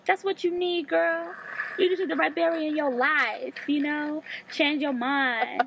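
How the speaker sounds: smooth flashy pimp swagger. Pretend. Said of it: "So I can talk my pimp voice".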